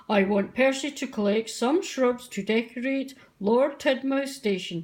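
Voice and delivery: a hint of a stern boss engine owner; lightly voiced Fat Controller. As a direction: speak as the kindly but firm controller.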